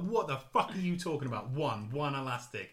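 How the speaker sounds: hammed-up exasperated Essex salesman; mildly furious. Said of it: "He gets furious".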